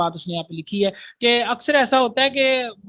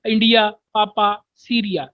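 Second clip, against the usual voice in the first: spelling it out; slower than usual. Shown as a demonstration. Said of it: "पी के लिए उसने पापा बोला".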